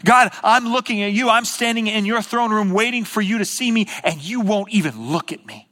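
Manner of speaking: acted plea to an unresponsive God; crying out. Preacher voices a sufferer before God's throne, crying out. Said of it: "you're crying out going".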